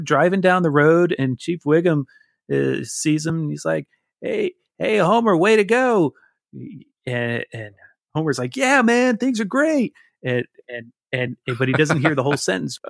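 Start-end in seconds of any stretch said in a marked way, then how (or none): 4.2-6.1 much higher cartoon cop calling out; Wiggum voice. Man retelling Simpsons, cop cheering Homer in high voice. 8.6-9.9 high, goofy cheering cartoon dad; Homer voice. Man retelling Simpsons episode, high goofy Homer cheer.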